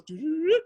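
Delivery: high sing-song rewind noise doo-doo-doo-doo; imitated rewind sound. Telling teammates how the clip rewound, with a high doo-doo-doo-doo. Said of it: "It goes".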